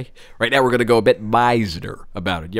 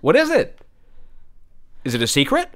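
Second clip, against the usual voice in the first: taxi driver; 3 semitones higher than usual. Acted. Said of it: "let's say a taxi driver".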